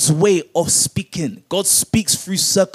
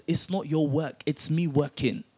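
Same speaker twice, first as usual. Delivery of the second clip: much softer, lower, intimate; quiet voice of God; 4 semitones lower, 11 dB quieter than usual. Acted. Preacher voicing God to the doubting listener, hushed. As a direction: drop right down as if God speaks close. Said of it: "God says".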